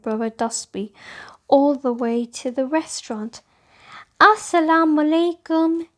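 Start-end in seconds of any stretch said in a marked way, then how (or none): 4.2-5.9 out of breath greeting; breathless after running; panting. A narrator's reading. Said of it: "she panted".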